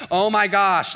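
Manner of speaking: fed up, played big; exasperated. Friend fed up with the drama, exasperated.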